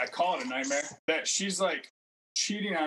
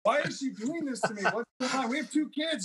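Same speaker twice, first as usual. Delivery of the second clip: much higher, pleading and upset; desperate high plea; 9 semitones higher than usual. Retold or imitated. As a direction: ask why she's doing this, voice climbing high. Pleading in retold dream.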